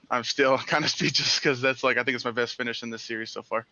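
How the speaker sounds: grinning through the words, with a chuckle; smiling voice. Real, not acted. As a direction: talk while smiling, happy. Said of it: "I can hear the smile in your voice".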